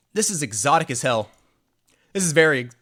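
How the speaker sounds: breathless, still winded; out of breath. Real, not acted. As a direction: talk while catching your breath. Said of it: "I have to catch my breath still".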